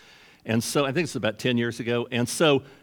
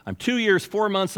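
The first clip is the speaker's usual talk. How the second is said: imitating a retiree counting down, pitched high; high, eager tally of time left; eager countdown; 9 semitones higher, 3 dB louder than usual. Man answering how things are going, eager countdown.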